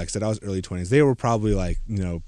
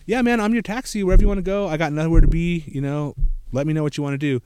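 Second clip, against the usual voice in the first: higher, breezy mock dude voice; mock easygoing boyfriend; 5 semitones higher than usual. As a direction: play the laid-back taxi guy, lightly. Mimics boyfriend's easygoing offer.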